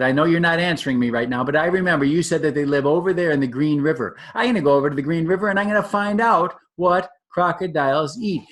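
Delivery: lightly voiced excited young elephant; eager baby elephant. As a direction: play the curious baby elephant.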